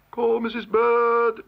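high, slow, drawn-out summons; court calling out. A narrator's reading. Court summons Missus Bird, calling out. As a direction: sing out the name on a held high note.

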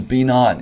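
firm stress on "Be not"; emphatic command. Shown as a demonstration. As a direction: hit "Be not" as an imperative. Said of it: "emphatically it says".

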